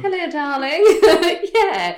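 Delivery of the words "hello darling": put-on posh accent. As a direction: greet her in a posh accent. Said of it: "Speaking posh to Alexa".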